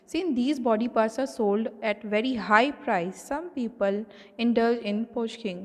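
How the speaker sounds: reading the textbook line aloud, slowly; measured read-aloud for the class. Acted. Teacher reading the book to students, slow and measured.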